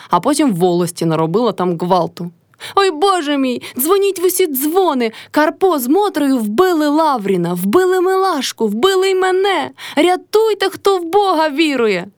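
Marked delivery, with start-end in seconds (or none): 2.7-12.1 much higher, slow frantic scream for help; screaming in a strange voice. A narrator's reading. Old woman screaming for help at the district office. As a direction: raise the alarm at the top of the voice. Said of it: "кричала не своїм голосом Кайдашиха".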